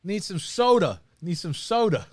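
mock Boston "soda"; playful Boston accent catchphrase. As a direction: ham up the Boston vowels. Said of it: "that accent".

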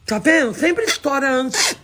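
flat robotic monotone. Real, not acted. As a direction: talk like a robot. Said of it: "Por que eu tô falando que nem robô?".

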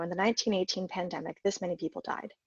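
a lightly voiced news read; reporter read. Shown as a demonstration. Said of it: "reading it more as a reporter".

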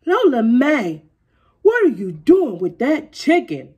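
loud, calling out across the yard; hollering. A narrator's reading. Papa hollering at daughter holding chicken. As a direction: holler it at her from afar. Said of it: "Papa hollered".

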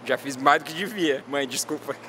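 talking with stitches in mouth; after wisdom teeth. Real, not acted. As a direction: speak carefully around a sore mouth. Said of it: "eu estou com pontos na minha boca porque eu tirei o dente do siso".

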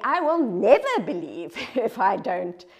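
"never" in "I will never believe" pushed out loud and firm; emphatic refusal. Retold or imitated. A preacher voicing Thomas's stubborn vow, loud and emphatic. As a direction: plant your feet and refuse flatly, hitting "never". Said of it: "He's emphatic".

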